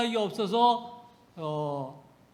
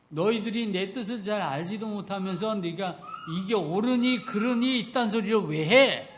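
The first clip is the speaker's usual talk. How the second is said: mild scolding. Retold or imitated. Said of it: "이런 말씀하시는 거예요".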